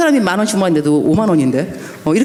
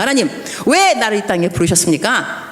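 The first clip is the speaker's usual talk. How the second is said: serious plea; 2 semitones higher than usual. Retold or imitated. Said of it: "seriously, 심각하게 말하는 거야".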